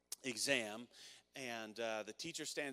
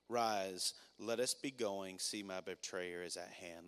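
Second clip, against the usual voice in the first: scripture reading; 2 semitones lower than usual. Acted. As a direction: read the passage gently, like holding something fragile.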